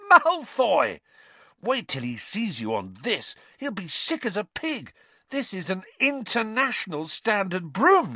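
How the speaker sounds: high, crowing delight; gleeful whooping. A narrator's reading. Ron imagining a rival's envy, whooping with glee. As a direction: whoop the name loudly, then gloat on high. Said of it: "gave a great whoop of laughter".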